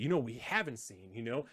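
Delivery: mock news voice hinting it should be expected; leading insinuating tone. Host mimicking the reporter's insinuating inflection. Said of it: "The inflection on it, like, it should be expected".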